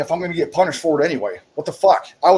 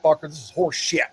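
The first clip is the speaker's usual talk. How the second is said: retold outrage; 4 semitones higher than usual. Soldier griping at the pointless early call, outraged. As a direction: vent at wasting five hours. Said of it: "I'm like".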